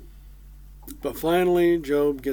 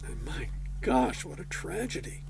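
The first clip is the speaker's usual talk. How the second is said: hushed dismay; 4 dB quieter than usual. Retold or imitated. Friends hear of Job's tragedy.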